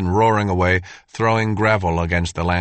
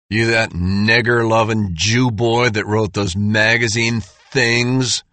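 sneering skinhead; snarled racist taunt; sneering thug; 3 semitones higher, slower than usual. Acted. Skinhead leader sneering insult.

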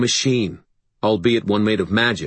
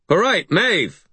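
high, raised shout; calling out; 11 semitones higher, 4 dB louder, slower than usual. A narrator's reading. Harry surrendering to Maeve outside, calling out. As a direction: call it out high to someone distant. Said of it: "I called".

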